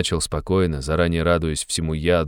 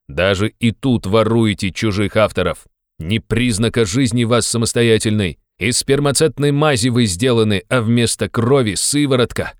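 loud, high contemptuous tirade; angry rant; 4 semitones higher, 4 dB louder than usual. Acted. Razumikhin denouncing Raskolnikov's crowd, angry and loud. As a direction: lash out at the whole lot of them.

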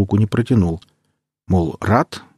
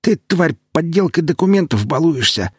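put-on angry old man shout; 9 semitones higher than usual. Disguised necromancer accuses the lawyer.

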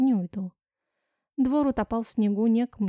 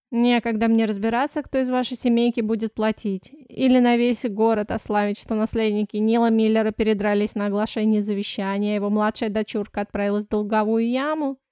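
louder irritated blurt; angry outburst; 5 dB louder than usual. Acted. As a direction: snap at the girl angrily. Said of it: "Зло выпалил мужчина". (зло выпалил)

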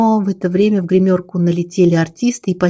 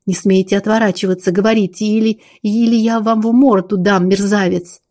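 understated angry outburst. Acted. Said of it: "выкрикнула по-русски с абсолютно Марфиной интонацией".

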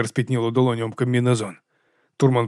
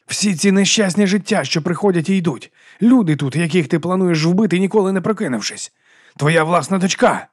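high, loud pained accusation; anguished outburst; 6 semitones higher, 3 dB louder than usual. Acted. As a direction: cry out the loss of all those lives. (болісний, гучний докір)

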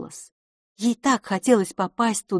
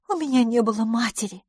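higher character voice; lightly voiced lady friend; 5 semitones higher than usual. Lady interrupts her guest about her mother, lightly voiced.

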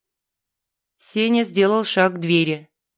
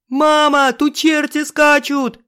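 намного выше и громче, медленно; кричать в ужасе; крик; 8 semitones higher, 4 dB louder, slower than usual. A narrator's reading. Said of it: "кричал сын". (сын кричит матери, намного выше и громче)

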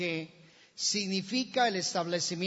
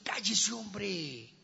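crowd's pressure; 5 dB quieter, much slower than usual. Acted. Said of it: "me imagino la presión de ellos".

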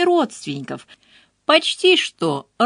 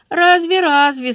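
higher, louder mocking echo of Laura; rueful mimicry, throwing her words back; Dolly mimicking Laura with a sorry sigh; 8 semitones higher, 4 dB louder than usual. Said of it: "сокрушённо передразнила её Долли".

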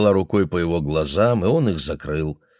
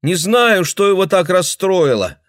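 high, loud tearful reply; girl answering through the bathroom door; upset girl through door; 11 semitones higher, 5 dB louder than usual. Acted. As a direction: call through the door, shaken.

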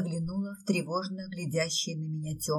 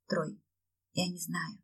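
moaned; 6 dB quieter than usual. A narrator's reading. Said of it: "простонала я".

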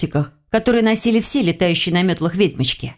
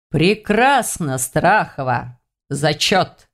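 Silarin's voice; 4 semitones lower, much slower than usual. Acted. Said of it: "голос Силарина".

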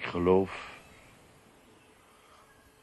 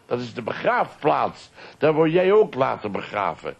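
much higher and louder, rushed at first; a boy pointing out of the car window; excited call; 9 semitones higher, 8 dB louder than usual. Retold or imitated. Son calls to his father passing a graveyard, high and excited. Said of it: "dan riep hij".

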